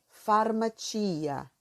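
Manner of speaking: "farmacia" with ci as "tchi", stress on the i; Italian pronunciation. Shown as a demonstration. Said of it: "A pronúncia de farmácia é". (pronúncia italiana de "farmacia", com tchi)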